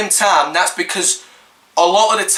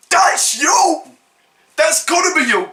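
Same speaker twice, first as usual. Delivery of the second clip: mock whine; 6 semitones higher than usual. Real, not acted. Mocking, with cry sound.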